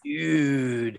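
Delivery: put-on Valley Girl "Dude" with the U held long. Shown as a demonstration. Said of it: "you need multiple U's in your pronunciation of dude".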